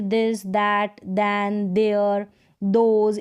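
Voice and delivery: this, that, then, there, those with a voiced द; TH read as द. Shown as a demonstration. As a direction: model each word from this to those starting on "d". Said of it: "टीएच को द pronounce".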